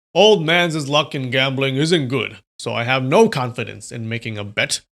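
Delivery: lightly voiced old man; a hint of a gruff old villain. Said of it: "I like that voice".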